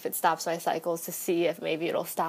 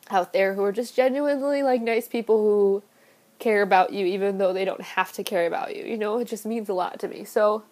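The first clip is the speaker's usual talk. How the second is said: blubbering; 2 semitones higher, 4 dB louder than usual. Real, not acted. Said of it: "and I'm crying".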